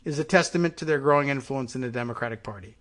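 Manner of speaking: reading an article out with emphasis; news read-aloud. Real, not acted.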